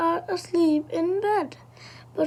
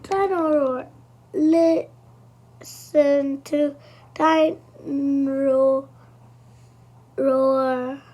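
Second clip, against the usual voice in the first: sunny, upbeat coaxing, slowing at the end; Mummy Pig brightly comforts George; bright and cheerful; 4 dB louder, much slower than usual. Acted.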